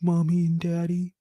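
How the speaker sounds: lightly voiced small child asking permission; a hint of a meek, scolded child; sheepish little child. Mocking him as a child.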